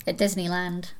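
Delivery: put-on punchline in a light Scottish accent. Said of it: "jokes that only work in a Scottish accent".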